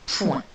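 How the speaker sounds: first syllable of pointu said alone. Shown as a demonstration. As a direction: point set apart as a lone syllable. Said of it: "Donc première syllabe".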